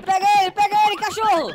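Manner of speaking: loud, high sic him; loud command. Acted. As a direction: shout the dog on. Cop sets dog on him.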